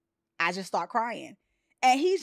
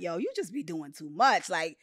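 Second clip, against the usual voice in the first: mocking dismissive quote; 3 semitones higher, 3 dB louder than usual. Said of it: "who have been like".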